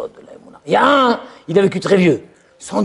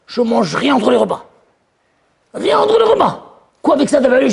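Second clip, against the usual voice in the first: high, excited questions; high excited friend; surprised friend; 4 semitones higher than usual. Acted. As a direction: act amazed friend's astonishment. Acted dialogue with friend.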